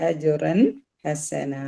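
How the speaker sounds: അജുറൻ ഹസന, last aa held; full-stop madd. Shown as a demonstration. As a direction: recite to a stop on a long ഹസന. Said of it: "അതിനെ full stop ഇടുക".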